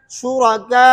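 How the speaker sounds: शुरका with a medium-long आ closing on waw; tawassut with waw. Shown as a demonstration. Teacher showing ibdal with waw at middle length. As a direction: draw out शुरका moderately, ending in a w. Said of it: "तवस्सुत क्या है".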